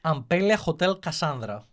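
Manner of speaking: name said with a Greek accent. Real, not acted. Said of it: "It's with the Greek accent".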